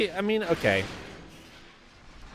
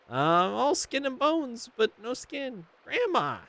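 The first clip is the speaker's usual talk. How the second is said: higher, slow skeleton voice; joking skeleton; 11 semitones higher, 3 dB quieter, slower than usual. Acted. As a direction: deliver the bone joke slowly, higher. Skelly jokes to grandma.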